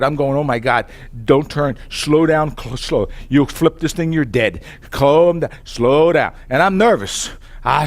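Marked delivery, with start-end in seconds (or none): 0.4-6.3 retold panic. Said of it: "I'm shaking. I'm scared".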